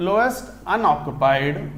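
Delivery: drawn out, slowly dictated; slow dictation. Shown as a demonstration. Teacher dictating the LUMO definition slowly to students. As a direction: give each word time for note-taking. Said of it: "teacher dictating LUMO definition".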